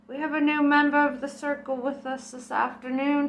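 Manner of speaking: a mock solemn spirit guide.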